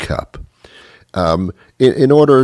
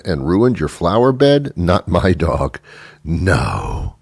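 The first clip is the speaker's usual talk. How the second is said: mock-incredulous, then dismissive denial; mildly combative dog owner in denial; belligerent dog owner. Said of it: "They're belligerent".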